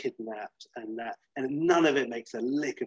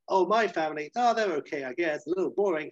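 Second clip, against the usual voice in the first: offhand Rusty; 5 semitones higher than usual. Retold or imitated. Rusty playing down his family.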